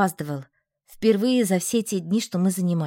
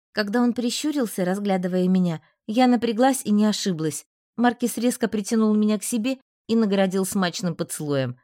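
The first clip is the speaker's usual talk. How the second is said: usual speaking voice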